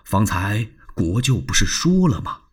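soothing Liu Bei. Acted. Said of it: "玄德赶快安慰".

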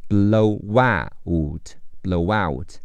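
"blow out" with the w sliding into "out", sounding like blo-wout; slow and linked, the w carried straight over. Shown as a demonstration. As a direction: blow out drawn out slowly with a w glide between the words. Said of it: "blow结尾的W和out开头的O连起来读".

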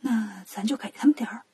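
soft, breath-only stage whisper. Acted. 悟空小声给同伴出主意, whispered. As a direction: whisper it under your breath. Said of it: "悟空小声说".

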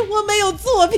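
mock crying. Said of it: "因为没有作品而哭泣".

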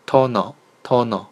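toner said the Korean way, to-neo, with aspirated t; teacher's careful repeat of Korean toner; aspirated Korean pronunciation. Shown as a demonstration. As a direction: model toner slowly as two Korean syllables. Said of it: "送气的调稍微高一些".

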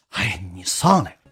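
slow, drawn-out mimicked pleading; nagging coax. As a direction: pester her with a stretched-out request. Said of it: "一遍搁那磨叽磨叽磨叽". (拖着长音磨叽)

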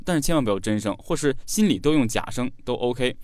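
ordinary delivery

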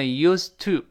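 "used to" run together, d unreleased. Shown as a demonstration. Teacher shows fast reading, "used to" with unreleased d. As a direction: drop the burst of the d in "used to". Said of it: "那个的失去爆破了".

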